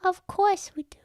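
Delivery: high whispered tease; whispering. Acted. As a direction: whisper it like a secret. GM teases about king.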